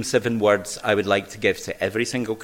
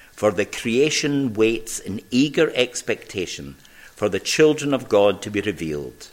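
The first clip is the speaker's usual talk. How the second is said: scripture reading. Acted.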